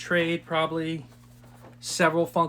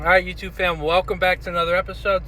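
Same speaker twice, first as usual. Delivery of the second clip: talking while crunching ice; words round a mouthful of ice; chewing while talking; 3 semitones higher, 3 dB louder than usual. Real, not acted. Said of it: "Sorry, I'm chewing some ice".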